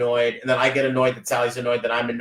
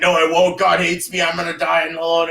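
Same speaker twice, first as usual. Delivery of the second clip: mock despairing outburst, louder; self-pitying person; 3 semitones higher, 3 dB louder than usual. Imitating someone who refuses comfort, overdone despair. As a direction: wail it in hammed-up misery. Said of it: "And they're like".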